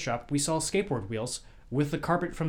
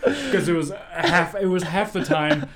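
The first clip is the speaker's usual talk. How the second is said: talking through real laughter, higher and louder; laughing; 6 semitones higher, 8 dB louder, slower than usual. Real, not acted. Host laughs at friend's punchline, laughing. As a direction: laugh while you praise it.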